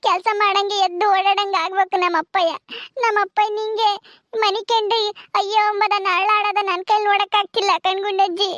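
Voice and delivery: acted tearful plea; tearful pleading. Daughter pleading for her father to recover, tearful. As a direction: plead through mild tears. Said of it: "ಸುಮ್ನಿರು, ಅಳ್ಬೇಡ".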